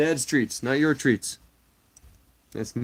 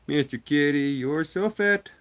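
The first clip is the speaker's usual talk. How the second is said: higher and slow, stretched teasing; drawn-out tease; 3 semitones higher, 4 dB louder than usual. Real, not acted. Streamer teasing his fat cat, high slow. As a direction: stretch it out fondly.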